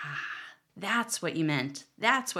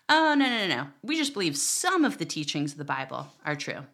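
dismissive Christian. Pretend. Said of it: "imagine if Christians did not believe".

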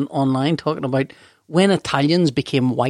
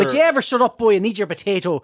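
stern Irish father; 3 semitones higher than usual. Acted. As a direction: bark at the boy in an Irish accent. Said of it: "Irish accent".

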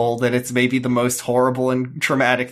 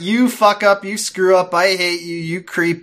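louder, higher angry tirade; mock yelling; 5 semitones higher, 4 dB louder than usual. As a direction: rant at him like a furious ex. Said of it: "starts yelling at him".

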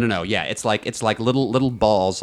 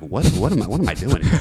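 incredulous inner voice; 5 semitones higher than usual. Retold or imitated. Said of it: "thinking, like".

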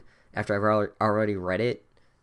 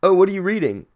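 higher, louder sneering teacher voice; mock Snape; 8 semitones higher, 8 dB louder, faster than usual. Snape questioning Harry about his book, mock-sneering. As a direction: pounce on the kid with fake interest. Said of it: "Snape ... is like".

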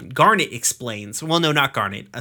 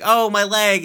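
faked pain; 8 semitones higher, 4 dB louder than usual. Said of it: "he finally starts kinda putting on the act".

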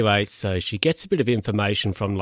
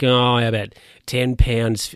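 slow, drawn-out posh British, a bit louder; posh British bidder; 2 semitones higher, 5 dB louder, slower than usual. Acted. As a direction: put on a real posh British gent. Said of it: "Like, he's real posh".

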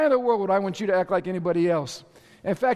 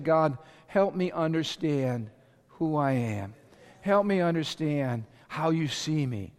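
humble prayer; 4 semitones lower, slower than usual. Shown as a demonstration. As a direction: pray it gently and sincerely. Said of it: "what you should be doing is be saying".

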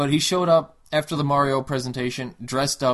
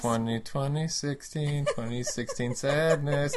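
slowly, weighing each word; slow deliberate reread; 3 dB quieter, slower than usual. Shown as a demonstration. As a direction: say it slow to test the sound. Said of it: "It doesn't flow".

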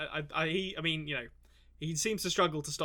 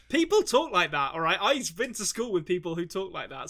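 mock indignation; 2 semitones higher, 4 dB louder than usual. Mock-indignant defence of posh talkers.

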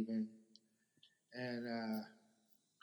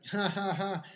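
loud, higher mock ha-ha; imitated laughing; 6 semitones higher, 7 dB louder than usual. Retelling the cop laughing at him, imitated laughing. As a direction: act out a big mocking laugh. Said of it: "this cop just starts laughing".

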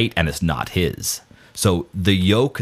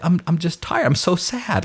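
mock self-pity; 10 semitones higher than usual. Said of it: "I'd be like".

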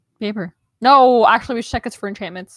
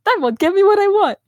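laughing; 11 semitones higher, 6 dB louder than usual. Real, not acted. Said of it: "my arguing voice".

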